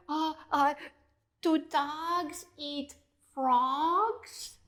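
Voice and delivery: slow, timid, halting frog voice; stuttering frog. A narrator's reading. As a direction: stammer out the fearful question. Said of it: "as it stuttered".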